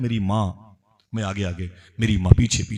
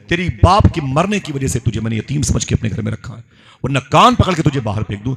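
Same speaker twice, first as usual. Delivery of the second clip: raised-pitch scolding from a furious aunt; acted angry tirade, pitched up on the threats; 3 semitones higher than usual. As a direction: lay down the law to the nephew. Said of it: "खाला मेरी बड़ी गजब में थी".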